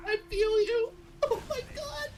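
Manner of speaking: high, crying squeal; half-laughing fake sob; mock crying. Real, not acted. Relatable game ending, crying.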